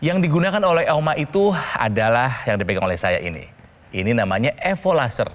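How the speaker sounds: upbeat hard-sell ad read; infomercial. Acted. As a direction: pitch it like a TV shopping host. Host switches into product pitch.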